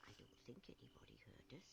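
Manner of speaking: fast, soft hush. Acted. Teacher reassuring pupil nobody noticed, hushed. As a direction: say it low and quick, relieved. Hushed relief after the noise.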